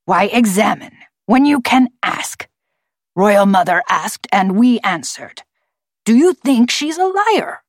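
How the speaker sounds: lightly forced gravelly bird voice; challenging talking bird. A narrator's reading. Bird challenging the visiting scientists, forced gravelly voice. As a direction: challenge them as an affronted bird.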